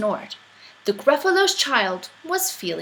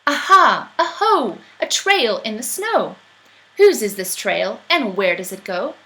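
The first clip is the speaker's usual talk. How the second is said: eager little explorer; bright, bouncy child voice; excited child calling; 5 dB louder than usual. Acted. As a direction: kid tracking footprints, calling out.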